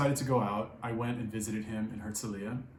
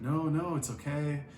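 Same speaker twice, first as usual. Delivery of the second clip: higher-pitched mock placating; retold appeasing plea, pitched up; imitated backing down; 4 semitones higher than usual. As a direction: act out a friend nervously backing off. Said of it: "he's, like, backing up".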